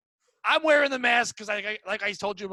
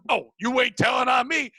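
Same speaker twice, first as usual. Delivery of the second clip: retold yell; 3 semitones higher, 5 dB louder than usual. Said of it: "they're fucking fighting two inches from behind me, just yelling".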